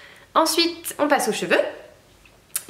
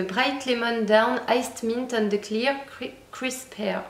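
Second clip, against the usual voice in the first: English accent; slower than usual. Shown as a demonstration. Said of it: "avec mon accent anglais".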